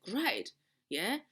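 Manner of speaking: biting mock praise, pitched to sting; sarcastic angry retort. To her partner who ignored the task, biting sarcasm. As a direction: throw the word back at him in annoyance. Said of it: "I stormed to the living room".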